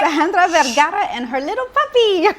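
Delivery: high, loud and laughing through the name; giddy laugh over the guest's name and puppy; laughing introduction. Real, not acted. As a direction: laugh while you announce her.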